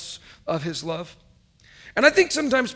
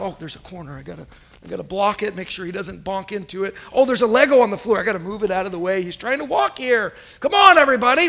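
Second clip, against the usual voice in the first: mock anxious fussing; 5 dB louder than usual. Helicopter dad's fussing inner voice.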